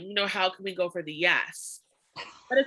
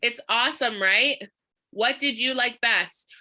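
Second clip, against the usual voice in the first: slow, even "What did you like best?"; slow demo line. Shown as a demonstration. Repeating the script for the class, slowly. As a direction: say it slowly so it sticks. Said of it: "Say it once more".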